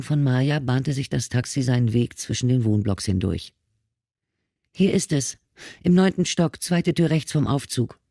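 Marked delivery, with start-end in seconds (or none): 4.7-8.0 put-on high, tearful young woman's voice; a lightly voiced frightened girl; scared girl. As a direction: plead through lingering tears. Girl gives directions.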